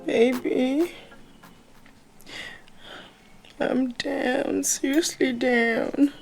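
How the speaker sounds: feigned sickness. Pretend. Feigning sickness to get money.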